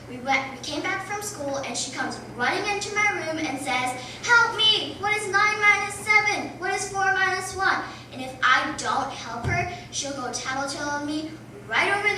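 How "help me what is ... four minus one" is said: whiny little sister. Retold or imitated. Little sister demanding homework help.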